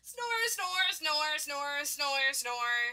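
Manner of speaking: droning, descending storybook snores; performed snoring. Acted. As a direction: run of snores sliding steadily down. Sleeping character snores on.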